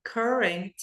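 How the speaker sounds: very slow, word by word; slow teacher demo of current city; slow spelled-out demo. Shown as a demonstration. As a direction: break it into pieces slowly. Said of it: "Som de E e um, um flat T".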